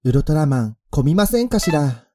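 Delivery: put-on high refined young lady; prim rich girl's voice; ojousama speech. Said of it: "そのまんま読み上げたんですけども".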